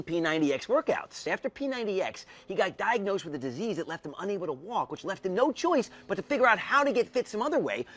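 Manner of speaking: smooth infomercial pitch. Acted. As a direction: sell it like a TV infomercial. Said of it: "you sound exactly like an infomercial".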